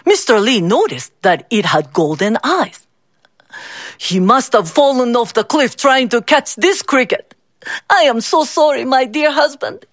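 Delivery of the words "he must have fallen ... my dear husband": tearful mother. Acted. Mother blames herself, crying.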